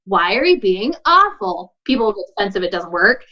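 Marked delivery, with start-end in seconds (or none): 0.1-1.7 slow, understated sarcastic question; snarky, sarcastic. Acted. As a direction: draw the question out with mild snark. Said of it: "If you're being snarky or sarcastic".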